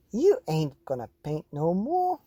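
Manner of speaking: mild mock holler from an exasperated mother; a hint of a scolding mama's shout. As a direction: call it out like a mum catching the mess. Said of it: "I heard my mama holler".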